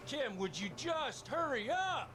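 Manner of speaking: high, slow, impatient call. Acted. Husband impatiently calling his wife. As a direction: hurry her from afar.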